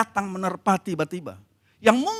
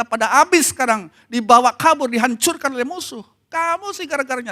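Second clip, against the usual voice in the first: raised, loud mock complaint; acted blaming; 4 semitones higher, 5 dB louder than usual. Soldiers blame Daud for their lost homes, accusing. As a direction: heap blame on the leader, pitched up. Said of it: "melemparkan kesalahan kepada Daud".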